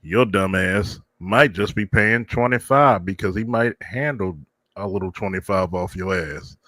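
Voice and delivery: creaky elder grumbling; very old man. Pretend. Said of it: "I gotta go with my old man voice".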